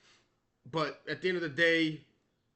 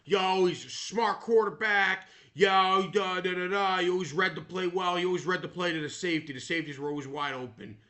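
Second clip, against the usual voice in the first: mock Eli fan; 3 semitones higher, 4 dB louder than usual. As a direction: mimic a bragging Giants fan. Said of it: "they go".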